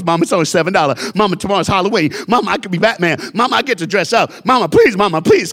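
put-on a boy begs his mom for the costume; begging kid. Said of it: "He goes".

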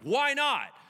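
high, loud comeback; challenging retort. Acted. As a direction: throw the question back loudly. God challenging Moses.

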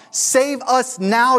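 "Save us now," stretched out high and loud, rising like a plea; crowd crying out. Retold or imitated. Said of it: "they're crying out".

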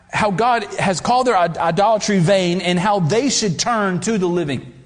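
talking while choking on spit. Real, not acted. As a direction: push through a throat full of spit. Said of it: "I'm choking on my spit".

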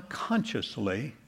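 "consciously" stressed, then left hanging before a pause. Real, not acted. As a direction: lean on the first syllable of "consciously". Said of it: "I would emphasize the word consciously".

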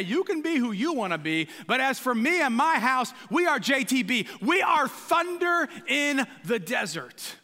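defiant declaration. Acted. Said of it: "and you can say".

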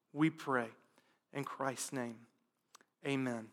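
soft, low prayer voice, measured pauses; quiet prayer. Acted. Pastor prays softly for his congregation, quiet prayer. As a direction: pray quietly and humbly over the congregation.

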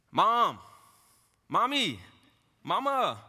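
put-on high loud calling of a small boy; child calling out. Preacher imitates son Levi calling mom, high loud wail. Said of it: "he cries out every morning".

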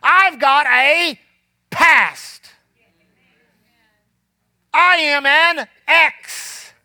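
a hint of hopeless past self, dragged slow; slow it right down in defeat; despairing self. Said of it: "and I'm like".

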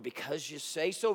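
soft, meek and humble; quiet humble acceptance. Shown as a demonstration. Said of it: "very humbly".

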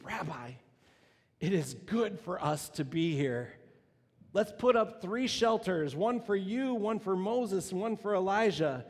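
eager disciple who wants to stay; Peter, overwhelmed and eager, pitching up. Acted. Preacher voices Peter's eager plea.

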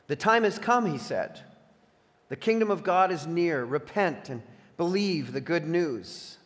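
measured, emphatic Bible narration; scripture reading. A narrator's reading. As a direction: read the Gospel aloud with deliberate phrasing. Reads scripture aloud.

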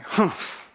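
sulky humph. Acted. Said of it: "It doesn't say that in the text, "humph".

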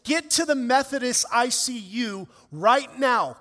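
mock yell into the phone, not full force; retold yell. Wife calls husband to the hospital, retold urgent yell. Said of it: "she yells into the phone".

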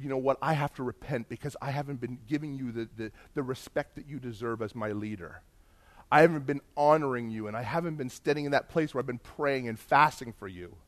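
retold repentance, soft and low; subdued, sorry, no real sobbing; tearful repentance. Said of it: "I started to bawl".

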